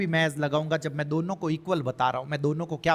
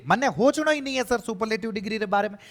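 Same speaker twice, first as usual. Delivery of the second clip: lightly voiced student, pitched higher; a higher-pitched mock objection to the teacher; protesting student; 5 semitones higher than usual. Student objecting to sir about the superlative degree, mock protest.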